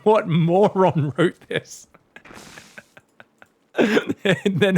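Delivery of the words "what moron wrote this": slow, louder mock-angry outburst; mock outrage. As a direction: fume at a stupid script, hammed up. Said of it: "He's like".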